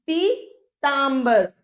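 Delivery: पीतांबर sounded out slowly with a long taa. Shown as a demonstration. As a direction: stretch the aa in पीतांबर, syllables apart. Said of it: "आ की ध्वनि आएगी". (पीतांबर में आ को खींचकर धीरे बोलें)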